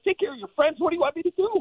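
retold frantic outburst; exasperated yell. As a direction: throw it out as an exasperated shout. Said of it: "I'm like".

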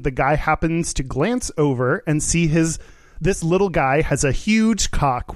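usual speaking voice

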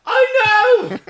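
loud, high angry snap; snapped. Acted. Jewel snapping at Stark in the corridor, angry and loud. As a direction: bite back hard and loud. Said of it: "Jewel snapped".

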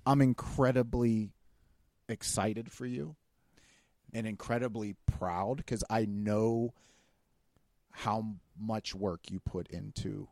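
heartfelt, measured and unhurried; opening up sincerely. Real, not acted. Friend telling friend he is proud, opening up sincerely. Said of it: "This is just me opening up".

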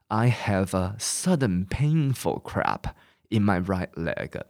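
"I have a sudden painful cramp in my right leg" slowly, one word at a time. Shown as a demonstration. Teacher reads the sentence word by word for class. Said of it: "一个字一个字来".

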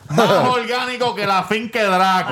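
catchphrase on request. Shown as a demonstration. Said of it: "Di la línea".

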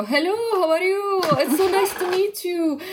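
slow, high mock Arab-accented English; cliché Arab accent. Casting cliché of Arabs in American films, mock accent. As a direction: parody the Hollywood Arab stereotype. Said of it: "هالكليشيه تبع شو العرب بالأفلام الأمريكية".

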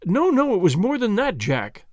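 high, urgent denial; distressed insistence; insistent fear. Acted. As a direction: refuse to be soothed.

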